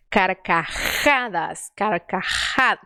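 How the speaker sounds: slow "Carcajadas" with a forceful rasped J; strong J. Shown as a demonstration. Teacher drills the strong Spanish J. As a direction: push the J in "Carcajadas" hard. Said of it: "colocando força".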